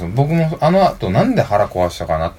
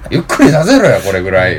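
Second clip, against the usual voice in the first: rough demand; 6 dB louder than usual. Retold or imitated. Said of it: "言うて".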